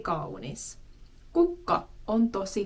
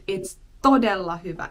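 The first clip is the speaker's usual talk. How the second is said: "todella" leaned on, said faster; emphatic; 2 semitones lower, 4 dB louder, faster than usual. Shown as a demonstration. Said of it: "you're really emphasizing".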